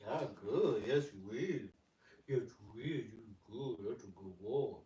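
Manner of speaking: a hint of sing-song doggy talk; pet talk. Real, not acted. Baby talk to the dogs.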